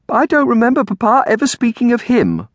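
put-on very high girlish protest; distressed cry. A narrator's reading. Girl doubts this cousin to her aunt, crying out. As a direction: object like an upset child. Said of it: "cried Amelia to Aunt Felicia".

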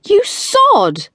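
high, loud outraged shriek. A narrator's reading. Tilly splashed by the car, shrieking. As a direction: shriek it as icy water hits. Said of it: "Tilly shrieked".

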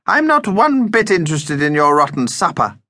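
high, cross little vampire; snappish. A narrator's reading. Vampire turns down Mum's supper errand, snappish. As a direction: refuse crossly, pitched well up. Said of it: "snapped Vlad".

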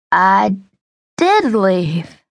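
put-on drunken slurred words. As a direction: slur it like a drunk. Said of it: "he said in a slurred voice".

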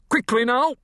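high, sharp shouted command; highwayman. A narrator's reading. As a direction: bark the order urgently.

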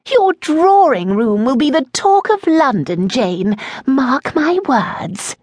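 Lady Adelaide gushing. A narrator's reading. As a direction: swoon over the new table.

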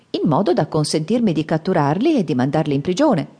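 put-on bow and greet the old man sweetly; polite little monk. Monkey explains politely. (monacello cortese che saluta il vecchio, voce alta)

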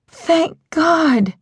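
relieved near-shout. A narrator's reading. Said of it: "she almost shouted".

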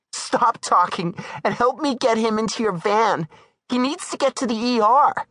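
high woman's voice, controlled urgency; commanding Darla. Acted. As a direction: order him to help.

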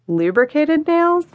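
slow, high, disbelieving question; incredulous. Acted. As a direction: drag it out in amused disbelief. Bartender incredulous at her pitch.

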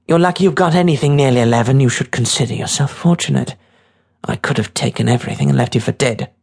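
a hint of a hard, impatient girl; lightly voiced tough girl, scolding. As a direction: put the kid in his place.

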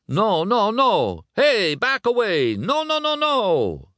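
very high-pitched frantic refusals; agitated ordering. Acted. Luigi to photographers, agitated high orders. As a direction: shoo them off with a string of cries. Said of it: "ordered Luigi".

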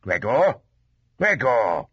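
father's mild warning call; short, admonishing repeat of the name. A narrator's reading. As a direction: say the name as a warning, first rising, then falling. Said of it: "in a warning tone".

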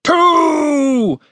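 high, loud drawn-out count; shouted countdown. A narrator's reading. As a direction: bellow the number from outside. Commander shouts countdown from outside.

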